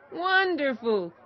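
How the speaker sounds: high, drawn-out exclamation; delighted shout. A narrator's reading. Travelers hearing of a potato, calling out with delight. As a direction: cry it out high and slow, moderately loud. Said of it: "shouted the travelers".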